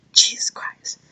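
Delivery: a voiceless, disgusted aside; exasperated whisper. Real, not acted. Retail worker fed up with a rude customer, whispering. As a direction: breathe it out under your breath, fed up.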